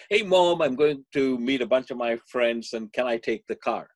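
lightly voiced excited teen; excited teenager. Son asking his mother for the car, excited. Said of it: "all excited and says".

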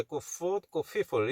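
"people" turned to "feeple" to match "foot"; easy F slip. Shown as a demonstration. Teacher showing the easy way, "people" with an F. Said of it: "이렇게 하면 발음이 쉬우니까".

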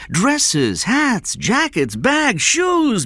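high, rising, insistent list. A narrator's reading. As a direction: reel off the list, pitch climbing. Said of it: "his voice rising".

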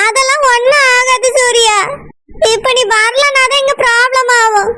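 crying while arguing back; tearful insisting. Acted. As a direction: push back through tears. Insisting through tears.

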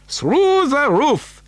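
high, slow, relishing each word; gleeful announcement. Acted. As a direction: savour the surprise. Wonka announces.

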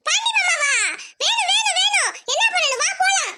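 put-on girl suddenly wide awake and eager to go; eager excitement. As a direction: jump up thrilled at hearing his name. Daughter eager at cousin's name.

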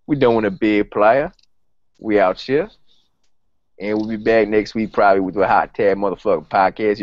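a lightly voiced Southern rapper, laid-back and boastful; impression of a rapper. Host signs off the podcast as a rapper, lightly voiced rapper. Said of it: "Just the host talking like a rapper".

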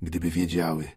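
lightly voiced dying father, pained; suffering old man. Dying father begging to be cured, pained. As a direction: moan it through the pain.

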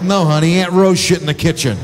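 mock-patient sarcasm to the wife; sarcastic reply. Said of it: "I'm like".

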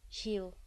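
"Heel." repeated with a pure, long Flemish vowel; "Heel." flat, clean, long e, as written. Shown as a demonstration. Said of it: "In Flemish we say heel".

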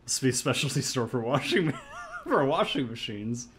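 giggling through the line; breaking up with laughter; laughing. Real, not acted. Reading dialogue while laughing.

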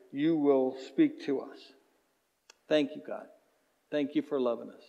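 calm pastoral closing prayer. Acted. Pastor praying for the congregation, earnest and calm. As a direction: pray earnestly over the room.

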